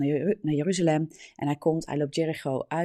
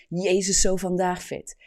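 restrained call, slightly louder; 2 semitones higher, 4 dB louder than usual. Acted. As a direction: call out to Jesus without really shouting. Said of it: "hij begint te roepen".

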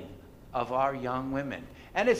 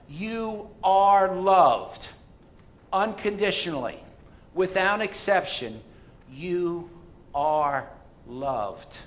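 slow proclamation; 3 semitones higher, 5 dB louder than usual. Acted. Proclaiming the voice of truth.

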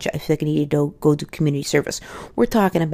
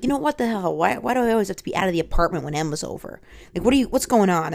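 higher-pitched exasperated complaint; fed-up wife; 4 semitones higher than usual. Retold or imitated. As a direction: mildly play an indignant wife. Retold wife's fed-up complaint.

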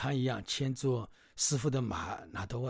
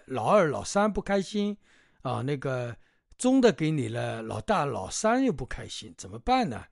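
higher, louder fussy woman, lightly voiced; hostess fretting; 4 semitones higher, 7 dB louder than usual. Hostess fussing to Bajie about her daughters, lightly voiced. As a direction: fret over which daughter to give.

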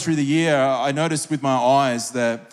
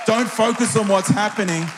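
higher, urgent preacher's exhortation; preaching at full force; 4 semitones higher than usual. Acted. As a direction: urge him on as the voice of Jesus. Jesus's words preached at full force.

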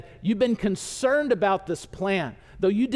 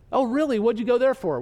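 higher, curious questioning; mock surprise; 4 semitones higher than usual. Friends quiz Jonah about Nineveh, mock surprised. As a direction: act lightly taken aback and nosy.

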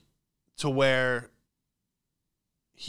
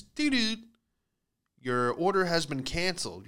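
app alert chime; 4 semitones higher than usual. Retold or imitated. App notification imitated.

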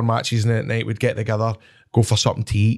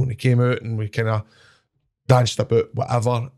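ordinary delivery

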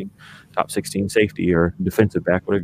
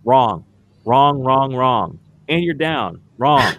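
emphatic wrong; much slower than usual. Real, not acted. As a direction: slam each wrong down. Mocking each bad play call.

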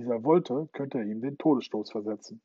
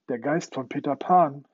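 astonished; 2 semitones higher, 6 dB louder than usual. Acted. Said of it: "wiederholte Hook verblüfft".

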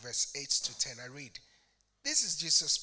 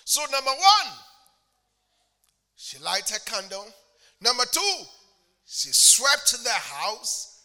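loud, higher rousing call; fervent preaching; 4 semitones higher, 10 dB louder than usual. Real, not acted. Preacher urging the congregation to the word, fervent. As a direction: rouse the crowd to answer.

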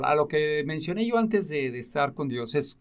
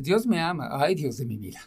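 heartfelt realization. Acted. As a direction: let it sink in, then soften. Same words once truly felt.

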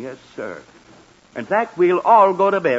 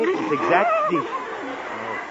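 yawning; 7 semitones higher, much slower than usual. Acted. Yawning mid-sentence again.

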